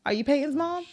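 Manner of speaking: whispered question to herself. Real, not acted. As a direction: breathe it out, close to tears.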